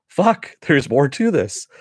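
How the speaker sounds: a high, loud burst on the first word that settles after; shocked exclamation. Retold or imitated. Viewer reacting to the episode's cliffhanger, a high loud shocked outburst. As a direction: struck by the twist.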